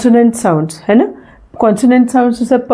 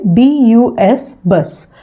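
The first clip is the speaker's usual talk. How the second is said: spelling out slowly; much slower than usual. Shown as a demonstration. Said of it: "ये spelling है word की".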